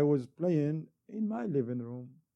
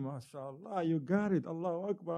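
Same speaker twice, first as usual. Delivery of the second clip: ordinary delivery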